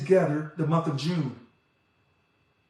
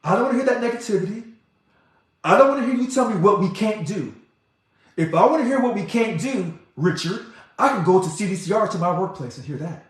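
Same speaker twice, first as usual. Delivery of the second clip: higher, fast, insistent retelling of her words; quoting Evie; 4 semitones higher, 3 dB louder than usual. Retold or imitated. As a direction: pass on her fed-up demand with energy. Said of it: "as Evie has told me".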